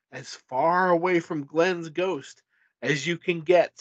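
measured, dramatic gamebook reading; story narration. A narrator's reading. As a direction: narrate a suspenseful adventure tale. Reads gamebook narration aloud.

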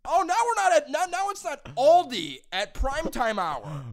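high, loud sarcastic rant; mock outraged comeback. Son retelling his comeback to early-rising mom, mock outraged comeback. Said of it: "this is what I did this morning".

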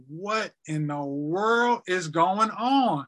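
slow, drawn-out disbelief; retold bewilderment. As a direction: stretch out each word, retelling a stunned question. Tearful bewilderment retold after doctor leaves.

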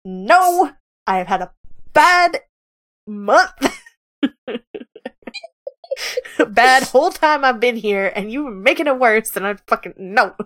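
exasperated yelp breaking into laughter; heated outburst. Acted. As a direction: voice jumping up on "bad". Olyun blowing up in role.

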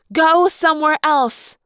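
grated. Acted. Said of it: "Cassie grated".

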